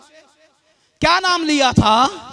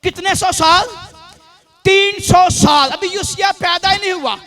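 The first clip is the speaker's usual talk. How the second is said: raised, declamatory sermon delivery; emphatic preaching; 5 semitones higher, 4 dB louder than usual. Real, not acted. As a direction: proclaim it to the congregation in measured phrases. Preaches with questions to congregation. (जोशीला उपदेश, बुलंद आवाज़ में)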